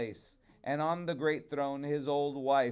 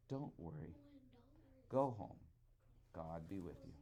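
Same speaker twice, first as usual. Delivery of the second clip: soft, hushed kindly goldfish voice; a quiet smiling fish soothing the old man; smiling reply; 7 semitones lower, 13 dB quieter, faster than usual. A narrator's reading. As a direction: smile through it, gently reassuring. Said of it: "The goldfish then smiled as he answered".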